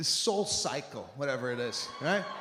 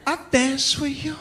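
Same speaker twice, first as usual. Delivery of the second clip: put-on girl accepting; 8 semitones higher, 4 dB louder than usual. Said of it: "she'd be like".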